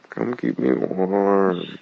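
slow, drawn-out playful whine; whining. Acted. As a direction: whine it to get cuddles. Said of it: "I'm whining".

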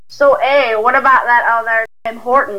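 put-on a weak Canadian accent with Southern showing through; Canadian accent attempt. Southern woman attempting a Canadian accent, half-hearted. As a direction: try on a Canadian voice and miss. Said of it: "I haven't done a Canadian accent in so long".

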